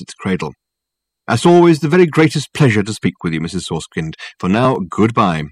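pompous, persuasive detective talking up his case; lofty and smooth, selling it hard; Dirk's grand phone voice. Acted. Dirk winds up the call.

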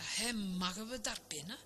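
acted childlike nagging; whining. A narrator's reading. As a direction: wheedle softly to be let in. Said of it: "zeurde het schaap Veronica".

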